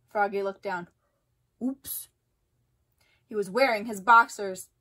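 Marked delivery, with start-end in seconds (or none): 1.6-2.1 much softer sheepish oops; little embarrassed oops. A narrator's reading. Froggy after egg lands on the director, sheepish. Froggy sees his boxers.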